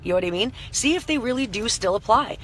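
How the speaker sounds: hoarse voice after a night of screaming; rough, strained voice; scratchy voice. Real, not acted. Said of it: "I'm so sorry for my scratchy voice".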